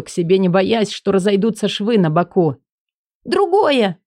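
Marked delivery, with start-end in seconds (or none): 3.2-4.0 Элли's voice. Acted. Элли higher.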